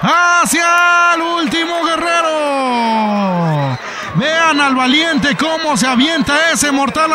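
excited lucha libre play-by-play; wrestling commentator. Acted. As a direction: call the match live, rising with the action.

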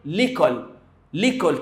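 "ليكول" run together as one word; elided French pronunciation. Shown as a demonstration. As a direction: say "ليكول" with the article's vowel dropped, falling. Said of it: "عاوزين ننطقها أسهل وأسرع". ("ليكول" مدغومة في كلمة واحدة)

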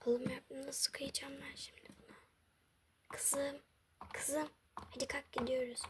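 soft unvoiced whisper so as not to wake anyone. Mother whispering to her sleeping daughter at dawn. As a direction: breathe the words out without voice.

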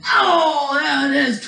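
mock commentator's burst of excitement; excited play-by-play. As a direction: exclaim as the pin begins. Mock wrestling commentary, pinfall.

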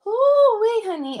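high pained cry of discomfort. Real, not acted. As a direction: cry out from the pain of getting up. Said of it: "Every time I get up, it hurts".

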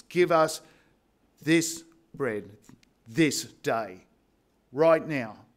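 loud stress on Give and right now; emphatic plea. Shown as a demonstration. Pastor models the urgent request to the congregation, emphatic. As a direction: urge each phrase. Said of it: "That double emphasis".

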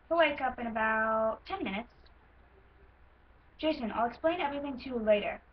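lightly acted explanation in an American accent; understated character read for an audition; Jasper. Horse character explaining a sleep spell, lightly acted American voice. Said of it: "I'm gonna do some American this time".

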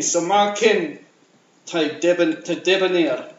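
rhythmic Scottish verse recital; poem recital. Acted. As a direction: declaim it line by line in broad Scots.

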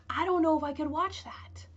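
hushed and unvoiced; whisper. Real, not acted. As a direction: whisper it to yourself. Dreading a depressing film.

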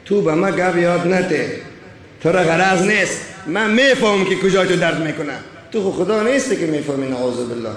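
arrogant doctor. Acted. Arrogant doctor dismissing his patient, lightly voiced with mild low scorn. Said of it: "ولی دکتر متکبر،".

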